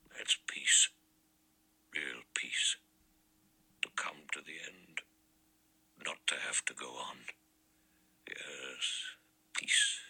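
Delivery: a hushed, eerie whisper, far away in thought; low, strange whisper. A narrator's reading. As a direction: breathe it out like a man already at peace. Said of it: "in a low, strange voice".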